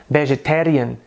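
"vegetarian" with a tapped Indian R; Indian English accent. Shown as a demonstration. Teacher contrasting with American, Indian accent. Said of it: "Já no inglês indiano soa".

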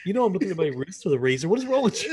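fast, hammed-up lonely friend; mock despair. Friend pleading over phone, hammed-up despair. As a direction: overact the heartbroken buddy.

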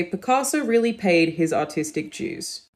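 slow Australian read with dues said as jooz; Australian accent, artistic dues with a J sound, unhurried; Australian accent demo. Shown as a demonstration. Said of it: "In the Australian accent, we would say".

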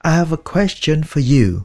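repeated drill. Shown as a demonstration. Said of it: "thì các bạn nói".

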